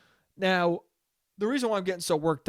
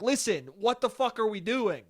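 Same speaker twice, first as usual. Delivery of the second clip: higher-pitched exasperated outburst; mock fed-up dad; 4 semitones higher than usual. Dad losing patience twelve minutes in, mock exasperated. Dad finally snaps, retold.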